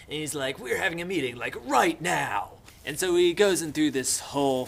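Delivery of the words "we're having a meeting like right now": louder, slightly higher irritated order; mock pissed off. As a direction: demand it in mock anger, stretching the end. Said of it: "Ralph gets really pissed".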